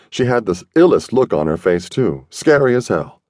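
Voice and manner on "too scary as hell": plain reading voice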